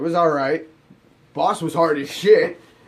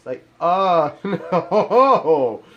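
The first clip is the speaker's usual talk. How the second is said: laughing refusal; 3 semitones higher, 4 dB louder, much slower than usual. Real, not acted. Reacting to the president's daughter.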